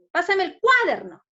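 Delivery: "cuaderno" loud and high on CUA, then dropping; wrong stress on CUA. Shown as a demonstration. Teacher repeating the mistaken request, stress on CUA in "cuaderno". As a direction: slam the opening CUA of "cuaderno". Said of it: "en la cual la mayor fuerza de voz".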